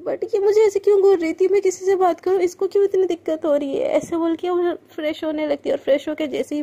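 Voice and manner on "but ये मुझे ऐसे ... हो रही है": annoyed self-talk. Acted. Frustrated self-talk in washroom.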